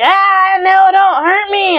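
high, loud frightened yelp; mock panic. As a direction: squeal it out in fake terror. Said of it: "He's like".

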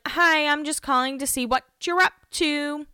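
high, halting, nervous phone message; mock flustered voicemail; awkward voicemail voice. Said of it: "She's just like".

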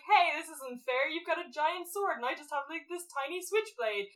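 mock whine about fairness; lightly voiced whining villain; whiny protest. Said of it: "he's like".

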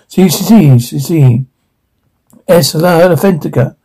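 put-on heavy Mexican accent, playful; thick Mexican accent. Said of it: "Thick accent".

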